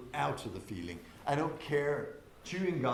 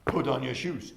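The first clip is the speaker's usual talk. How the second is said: louder direct order; normal demand; 6 dB louder than usual. Shown as a demonstration. Staff placing a demand on someone, louder firm order. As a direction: give a firm, projected instruction. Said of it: "you can do like this, that's what we normally do".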